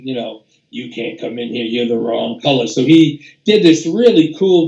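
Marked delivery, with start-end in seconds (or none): 0.7-2.7 low, quiet voice of a forbidding authority; voice of South Africa. Retold or imitated. Trumpeter improvising over the track as South Africa, low imitated voice. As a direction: turn them away in a lowered voice. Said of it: "he's sort of the voice of South Africa telling".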